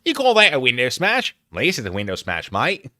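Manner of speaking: lightly mocking Australian accent; Australian-accented taunt. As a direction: put on a playful Aussie accent. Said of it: "we're still doing the Australian accent".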